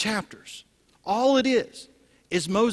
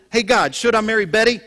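loud, raised-pitch question to God; hammed-up loud asking; mock eager prayer; 4 semitones higher, 9 dB louder than usual. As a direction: call up to God for a quick answer. Acting out a demanding prayer.

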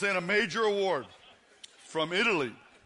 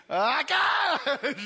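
excited shout; 4 semitones higher, much slower than usual. Real, not acted. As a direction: cheer it out. Asks man to flex, reacts.

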